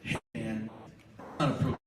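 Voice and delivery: low, calm word to a friend; calm quiet aside. Shown as a demonstration. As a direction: say it quietly, man to man. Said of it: "you can simply say".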